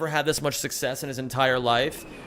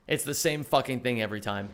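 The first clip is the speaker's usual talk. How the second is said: quieter repeat; 5 semitones lower, 6 dB quieter than usual. Real, not acted. Streamer grumbles the line again to himself, lower and softer. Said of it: "repeated line".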